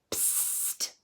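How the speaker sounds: soft unvoiced psst; a hidden voice catching Anna's attention with a hushed psst. A narrator's reading. A secret voice calling to Anna, whispered psst. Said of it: "Anna heard a voice".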